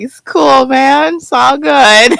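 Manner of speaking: high, slow, easygoing surfer drawl; laid-back dude voice. Retold or imitated. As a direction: chill it out like a stoner. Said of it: "He's like".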